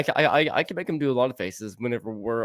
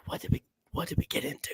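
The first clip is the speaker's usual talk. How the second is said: fast nervous whisper; 10 dB quieter, faster than usual. Retold or imitated. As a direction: whisper it to a friend in the dark. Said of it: "I whispered to Danny".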